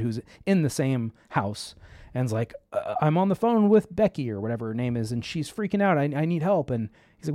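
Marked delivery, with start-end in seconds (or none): 2.7-6.7 higher, rushed mock panic of a frightened mother; panicked wife. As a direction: play the worried mother, a bit hammed. Wife frantic about daughter's call.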